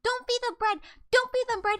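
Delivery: high frantic scream. Retold or imitated. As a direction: shriek the warning in a panic. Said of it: "And I started screaming".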